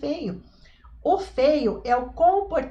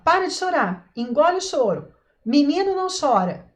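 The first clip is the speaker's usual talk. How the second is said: scolding parent; 3 semitones higher, 4 dB louder than usual. Retold or imitated. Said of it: "A criança tá chorando e você fala".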